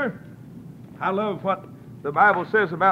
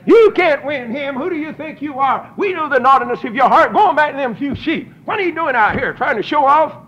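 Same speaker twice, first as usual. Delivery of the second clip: mocking brothers; 4 semitones higher, 3 dB louder than usual. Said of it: "like a high school bunch of cheerleaders".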